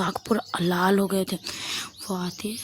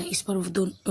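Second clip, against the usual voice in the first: ordinary delivery, nothing marked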